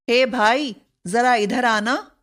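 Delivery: a light call across the room. Shown as a demonstration. Teacher calling a friend over, mild call. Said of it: "संबोधन सूचक".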